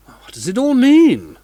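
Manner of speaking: high, slow, baffled question. Acted. Manager baffled by the ghost's box. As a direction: ask it in disbelief.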